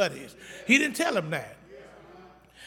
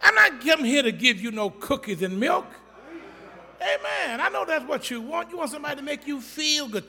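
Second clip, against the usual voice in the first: high, forceful pulpit delivery; impassioned preaching; 6 semitones higher, 5 dB louder than usual. Real, not acted. Pastor scolding a congregation that wants comfort, impassioned preaching. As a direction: preach it hard, pitched up high.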